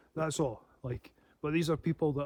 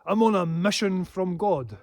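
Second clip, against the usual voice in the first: mocking quote; 3 semitones higher, 5 dB louder than usual. Mocking an attacker's claim, lightly hammed zeal. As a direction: lightly mimic the fanatic's claim. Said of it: "one of them said".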